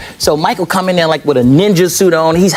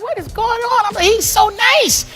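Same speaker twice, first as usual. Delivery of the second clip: mock amazement; slower than usual. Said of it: "I'd be like".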